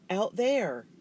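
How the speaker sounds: loud command. A narrator's reading. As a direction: send him out with it. Pointing, ordering loudly.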